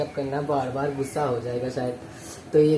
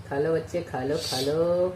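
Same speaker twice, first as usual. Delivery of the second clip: gentle coaxing; 4 dB quieter than usual. Real, not acted. Coaxing baby squirrel to drink milk.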